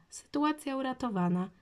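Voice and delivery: cheery dad saving the day; cheerful. A narrator's reading. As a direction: announce good news gladly, pitch lifted. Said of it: "Po czym dorzucił radośnie".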